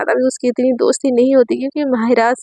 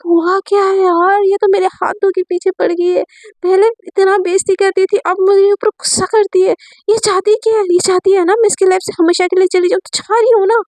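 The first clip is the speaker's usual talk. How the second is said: higher, exasperated inner rant; frustrated rant; 6 semitones higher than usual. Acted. Sakshi venting about her teacher, frustrated and higher. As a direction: vent your frustration at the teacher. Sakshi fumes after the call.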